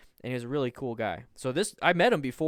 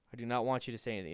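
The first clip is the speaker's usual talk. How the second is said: fast repeat; 5 dB quieter, much faster than usual. Real, not acted. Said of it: "repeated fast".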